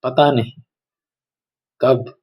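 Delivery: measured, expressive Hindi poetry reading; solemn verse recital with deliberate pauses; poem recitation. Acted. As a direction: recite it line by line, sustaining the phrases and pausing between them.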